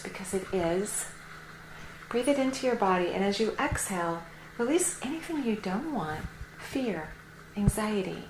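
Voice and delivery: measured meditation-guide delivery with pauses; calm, unhurried meditation talk; guided meditation. Real, not acted. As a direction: guide the listener gently into relaxed breathing.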